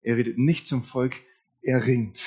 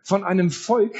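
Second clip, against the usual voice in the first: accusing lament; 4 semitones higher than usual. Retold or imitated. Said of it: "Habakuk klagt ein zweites Mal an".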